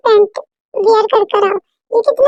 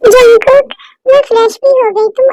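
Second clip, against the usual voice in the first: calling out; 3 dB louder than usual. Acted. Calling Jungkook from another room.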